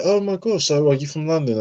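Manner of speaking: high-pitched, mildly gushing quote; amazed questioner. Retold or imitated. Students meeting a Brit from London, amazed. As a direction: imitate a curious stranger's amazement. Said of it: "they'll say".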